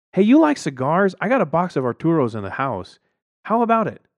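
high, loud sales pitch; oily schmoozer offers cigars; smarmy neighbor. A narrator's reading. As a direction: push the cigars.

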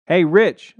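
high, loud call; calling out to Rich; yelling. A narrator's reading. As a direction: shout his name across the driveway. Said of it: "I yelled".

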